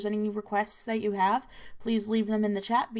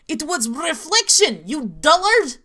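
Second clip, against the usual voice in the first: mock shout; 6 semitones higher, 8 dB louder than usual. Punchline insult in the story.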